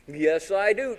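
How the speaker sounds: high, loud insistence; teasing mom. Retold or imitated. Mom insists she sees a smile, high loud tease. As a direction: imitate mom insisting playfully. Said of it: "My mom would do this".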